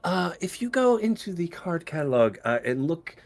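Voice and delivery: lightly voiced mousy elf, pitched slightly up; a hint of a calm, helpful librarian. Librarian directs visitor to card catalog, lightly mousy and calm. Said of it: "very mousy".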